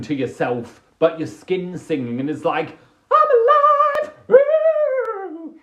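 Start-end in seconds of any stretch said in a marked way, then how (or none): 3.1-5.5 very high, loud joyful cry; ecstatic shout. Acted. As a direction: belt it out full of life. Skin singing after plunge pool.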